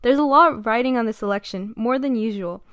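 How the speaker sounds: steady newsreader delivery; news anchor. Acted. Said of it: "that was me sounding like a great news anchor".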